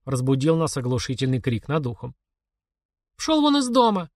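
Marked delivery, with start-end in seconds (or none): 3.2-4.1 high loud furious yell; shout. A narrator's reading. Mother yells at intruder to get out, high and loud. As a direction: throw the intruder out. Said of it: "закричала мама".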